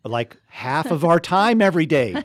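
high and loud, laughing through it. Real, not acted. Host joking about casting out demons, laughing. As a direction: blurt it out mid-laugh.

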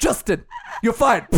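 hammed-up British boss; bad accent. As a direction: fire someone in a badly faked British accent. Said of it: "You're so bad at accents".

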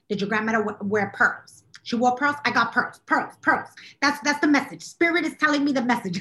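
put-on a light Long Island Italian accent, mildly lifted; lightly channel a Long Island psychic medium; a hint of a Long Island medium reading for a client; Teresa Caputo impression. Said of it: "'cause this is how she talks".

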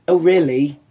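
imitated Kiwi-British lilt; British-sounding accent. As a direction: slip briefly into a put-on British accent. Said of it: "are you British".

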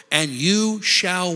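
slow, drawn-out lead for the church to finish; drawn-out prompt. Shown as a demonstration. Preacher to congregation, slow prompting call. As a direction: draw it out so the church joins in. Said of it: "say it like you mean it".

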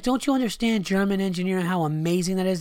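high, strained whine; high mock voice of a friend; mocking Burr. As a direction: squeak out Bill's sales pitch. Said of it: "he's like".

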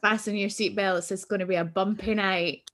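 a hint of Bette Davis, swelling on podcast, people; Bette Davis quote. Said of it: "the Bette Davis line".

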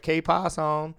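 strong Spanish accent. Shown as a demonstration. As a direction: roll out qué pasó like a native Spanish speaker. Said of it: "throw a little more of the accent".

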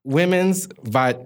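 slow, halting, can't get the word out; hesitant stalling. Real, not acted. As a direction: stall before the awkward word. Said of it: "He couldn't even get it out of his mouth".

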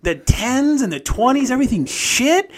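lightly voiced grumpy old father brushing it off; grumpy dad voice. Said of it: "he was just like".

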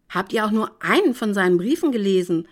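snapping at her. Acted. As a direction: bite back at her mother. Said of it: "fahre ich sie an".

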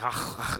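unvoiced throat-clearing sound; throaty rasp imitation. Shown as a demonstration. Showing friend how Scottish sounds, throaty rasp. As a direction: make a rasping back-of-throat noise. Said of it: "Scottish is more like".

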